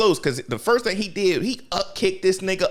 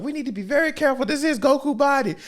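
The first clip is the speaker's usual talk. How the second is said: mock worried; 8 semitones higher, faster than usual. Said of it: "it was just like".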